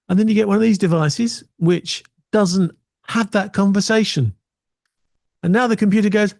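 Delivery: ordinary delivery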